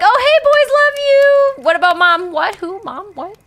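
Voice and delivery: high, loud, fake-cheerful dad voice; husband greeting his sons and ignoring his wife, high and fake-cheerful; mock cheery dad. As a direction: gush at the boys, then play dumb about mom.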